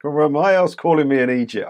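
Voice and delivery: put-on half-hearted Irish accent, barely there; a weak try at the Irish homeowner's accent; attempted Irish accent. Homeowner quoted indignantly, in a half-hearted Irish accent. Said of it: "I can't do an Irish accent".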